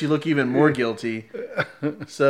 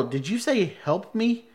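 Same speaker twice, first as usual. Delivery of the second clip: slow, higher-pitched disbelief; incredulous query; 7 semitones higher than usual. Retold or imitated. Puzzled passenger asking the security woman, slow incredulous query. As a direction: question it slowly, as if misheard. Puzzled man questions the guard.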